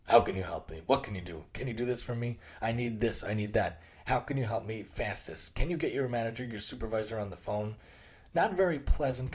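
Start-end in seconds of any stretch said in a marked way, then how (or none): 0.1-7.8 a mildly gruff, demanding caller, imitated; mock gruff customer. Customer calling service, imitated lightly as gruff and demanding. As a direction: play the pushy caller lightly. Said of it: "Usually they're very gruff".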